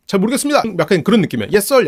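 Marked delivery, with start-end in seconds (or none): 0.1-0.6 higher, meek and unsure; timid Fear voice. Retold or imitated. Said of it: "소심이가". 1.5-1.9 higher, louder yes-sir salute; obedient soldier. Retold or imitated. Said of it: "약간 그런 느낌으로 하거든".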